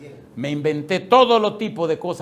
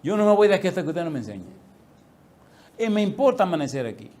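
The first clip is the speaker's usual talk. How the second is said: raised and fast, pleading through tears; tearful demand; 4 semitones higher, 4 dB louder than usual. Retold or imitated. Student to teacher, tearful loud insistence. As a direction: insist loudly that you won't leave. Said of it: "Y empecé a llorar".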